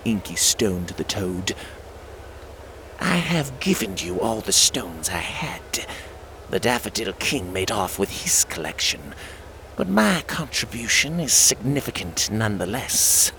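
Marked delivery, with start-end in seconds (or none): 3.0-13.3 Lunar Queen. Acted. Queen reports to Dark One.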